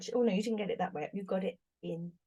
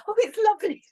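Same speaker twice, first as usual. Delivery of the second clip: very high, loud mock-cheery reply; hammed-up British politeness, pitched way up; fake polite delight; 9 dB louder, faster than usual. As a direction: gush falsely to cover a complaint. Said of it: "And you go".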